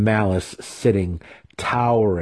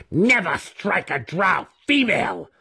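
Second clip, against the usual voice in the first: high shrill-free scream, pitched way up; 12 semitones higher than usual. A narrator's reading. Brisa beating Drizzt, screaming. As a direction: scream it down at him mid-whipping. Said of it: "she screamed".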